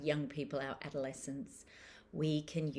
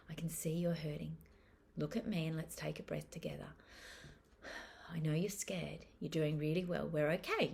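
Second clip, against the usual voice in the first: put-on calm reassuring to child. Shown as a demonstration. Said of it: "we front load what will happen next".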